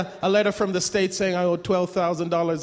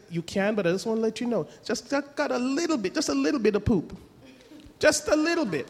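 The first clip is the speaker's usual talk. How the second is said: higher, teasing fatherly tone; sly dad; 3 semitones higher than usual. Retold or imitated. Father warning his teens about the brownies, sly. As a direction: tease them sweetly.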